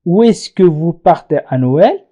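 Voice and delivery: slow, careful French question; slow model sentence. Shown as a demonstration. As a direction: read it slowly for learners. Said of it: "نقول". (سؤال فرنسي ببطء)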